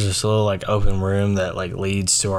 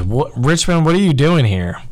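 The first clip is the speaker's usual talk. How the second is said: higher, louder questioning; surprised coach; 7 semitones higher, 5 dB louder than usual. Retold or imitated. Coach spotting a cut player at practice, raised surprise. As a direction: imitate a coach caught off guard.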